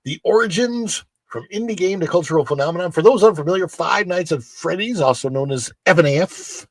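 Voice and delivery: animated, emphatic presenter reading; news article read. Acted. Host reading Halloween Horror Nights article, animated news-read delivery.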